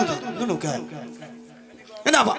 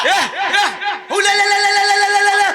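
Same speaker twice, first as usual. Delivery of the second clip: calling a dog; 9 semitones higher, 5 dB louder, much faster than usual. Real, not acted.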